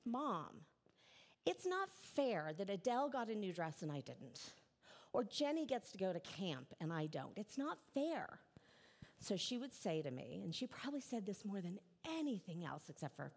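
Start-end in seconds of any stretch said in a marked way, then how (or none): 0.1-8.4 mild mock whine, slowing on the last complaint; little girl protesting to her mother about fairness, mildly whiny; whining child. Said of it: "going back to the whining part".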